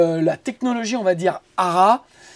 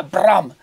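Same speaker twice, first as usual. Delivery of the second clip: bruitage d'impact; 2 semitones lower than usual. Acted. Imite l'effet du plugin.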